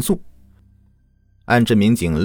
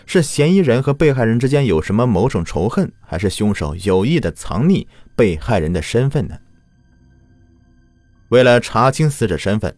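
steady, grave case narration; true crime narrator. A narrator's reading. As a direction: tell the case like a crime podcast.

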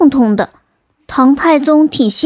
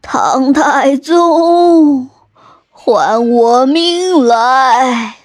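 slow, whispered ghostly moan; a drawn-out eerie whisper from a vengeful ghost; ghost wail; much slower than usual. Acted. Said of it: "还生气地哭喊着".

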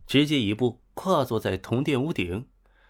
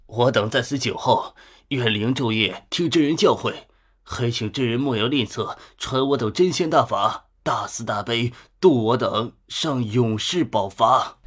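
pleading call. Acted. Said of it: "一人高呼".

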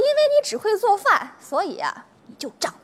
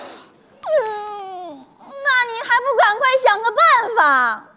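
tearful; much slower than usual. Acted. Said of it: "你别哭".

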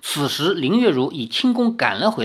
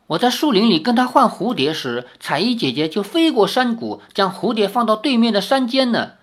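put-on animated child; 5 semitones higher than usual. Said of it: "孩童眉飞色舞地说".

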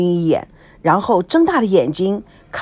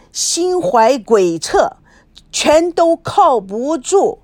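loud, high scolding, slow on the last words; scornful lecture; 5 semitones higher, 3 dB louder than usual. Acted. Friend scolding her naive roommate about men, loud and scornful. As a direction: drum it into her that men are no good.

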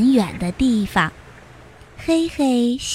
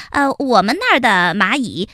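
quick nervous little ant voice; flustered little ant. Acted. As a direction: blurt it out, covering up. Heihei's take of the phrase. (黑黑慌忙编谎)

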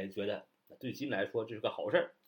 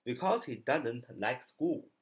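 slow, linked doesn't; slow demonstration of the linking; slow model reading; slower than usual. Shown as a demonstration. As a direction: read slowly, linking doesn't. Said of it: "连读doesn't".

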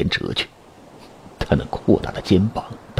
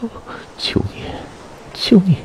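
pleading; 11 semitones higher than usual. A narrator's reading. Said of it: "他恳求道".

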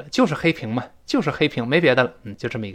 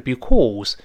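British pronunciation. Shown as a demonstration. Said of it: "比英式的because口型大一些".

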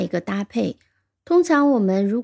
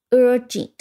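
"urgent" with a strong UR, falling jent; first-syllable stress; 3 semitones higher, 3 dB louder than usual. Shown as a demonstration. Teacher demonstrating word stress, "urgent" as UR-jent. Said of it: "重音是在第一音节的".

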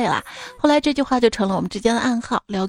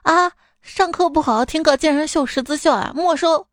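lightly acted teacher's telling-off, pitched up; scolding teacher; 5 semitones higher than usual. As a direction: catch a pupil red-handed. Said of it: "英语老师走过来说".

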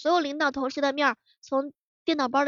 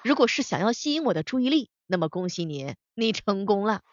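domineering CEO voice; 4 dB louder than usual. Acted. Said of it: "他们的语录的话呢，那也是相当之油腻".

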